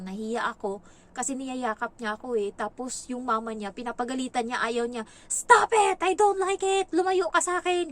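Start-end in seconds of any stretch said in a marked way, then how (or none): 5.3-7.9 much higher, louder shout; child yelling. Retold or imitated. The boy yells at his mother to get away, a loud tantrum. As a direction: yell it like a tantrum. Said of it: "Ginaganyan niya yung nanay niya".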